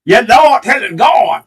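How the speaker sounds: hammed-up churchy praise call; Nola impression. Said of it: "we're gonna do his best Nola impression".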